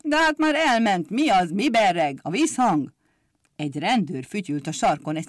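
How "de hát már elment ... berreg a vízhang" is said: angry shout from window. Acted. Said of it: "mérgesen kiabáltak".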